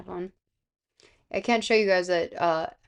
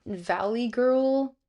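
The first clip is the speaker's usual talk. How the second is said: put-on drawn-out, higher valley girl lilt; valley girl drawl, pitched up; valley girl accent; 4 semitones higher, much slower than usual. Shown as a demonstration. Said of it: "gives you a bit of a valley girl accent".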